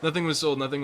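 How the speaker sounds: real giddy relief; laughing relief. Real, not acted. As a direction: gush it out through laughter. Relief after mistaken sell panic.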